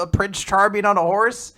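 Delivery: mock disbelieving question, pitch lifted; shocked. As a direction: act out baffled shock. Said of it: "of course, is very shocked".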